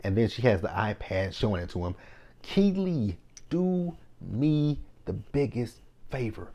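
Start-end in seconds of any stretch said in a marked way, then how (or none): 2.4-6.5 exasperated plea. Real, not acted. Talking to Keely on screen.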